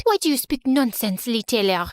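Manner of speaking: put-on French-accented girl questioning him, dropping low; baffled French rival. Genevieve to Lee by the bleachers, baffled French accent.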